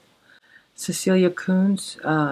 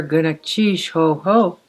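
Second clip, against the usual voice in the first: exclamation; 3 dB louder than usual. Shown as a demonstration. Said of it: "When you hear".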